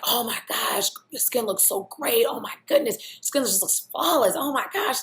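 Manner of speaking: high, loud gushing compliments; mocking the friend's over-the-top flattery. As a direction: fawn over her skin. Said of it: "he's like".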